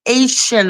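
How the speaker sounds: Asian for Haitian, AY-shun without the H; English attempt. Shown as a demonstration. French speaker admitting she couldn't say it, English attempt. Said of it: "in English".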